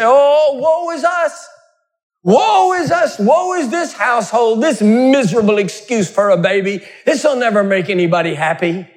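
high wailing lament. Retold or imitated. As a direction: wail in mock grief for the gods. Loud lament to fool the gods.

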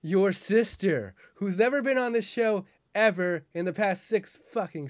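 Dawn voice. Retold or imitated. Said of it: "It's like".

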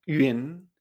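"Yun" as ü-in, rising at the end; second tone. Shown as a demonstration. Teacher repeating the word for cloud, rising "Yun". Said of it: "segundo tono".

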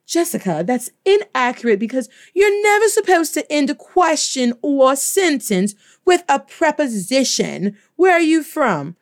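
a know-it-all correcting the teacher; mock grammar stickler. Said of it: "I know someone's going to say".

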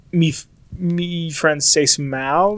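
halting tourist French; shaky phrasebook French; slow broken French. Shown as a demonstration. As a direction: sound out the French words slowly. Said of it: "If I would have said".

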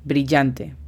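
slow word gloss. Shown as a demonstration. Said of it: "Bright significa brillante".

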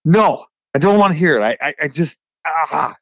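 mock-frustrated refusal trailing off. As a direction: snap back then run out of words. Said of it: "you're so frustrated".

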